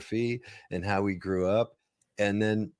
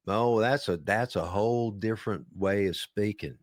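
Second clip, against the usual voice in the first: Deep South accent. Shown as a demonstration. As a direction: linger on the words like a Southerner. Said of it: "but I'm just joking".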